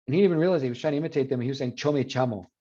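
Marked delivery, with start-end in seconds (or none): 1.8-2.5 yo me llamo with yo and llamo said with ch; ch instead of sh. Retold or imitated. Friend avoids the stigmatized sh. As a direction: cho me chamo, avoiding sh. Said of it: "he would say".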